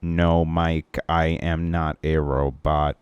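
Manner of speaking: slow monotone robot voice; flat, even, machine-like denial; emotionless robot. Pretend. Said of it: "are you a robot now?".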